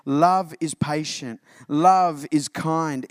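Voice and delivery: slow, weighty reading of "Love is patient. Love is kind."; solemn pulpit reading of "Love is kind."; earnest scripture reading. Shown as a demonstration. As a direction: let each word land slowly. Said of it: "And here it is".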